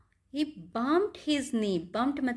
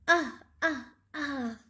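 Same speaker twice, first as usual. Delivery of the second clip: short, pretend "ah" of hurt; three little play-acted ouches; mock cries of pain; much slower than usual. Teacher as the monkey with a bumped knee, mock pained cries.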